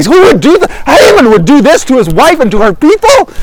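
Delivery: high, incredulous rant; worked-up royal indignation; angry king. Acted. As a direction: rant in disbelief at the betrayal. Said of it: "He's just so angry".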